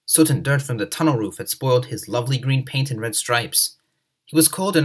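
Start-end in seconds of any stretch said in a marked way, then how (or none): none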